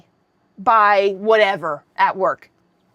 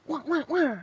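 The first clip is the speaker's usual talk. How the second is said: soft, higher-pitched "wah wah wah"; imitated fight noises; 4 semitones higher, 8 dB quieter than usual. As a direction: make little mock alarm noises, quietly.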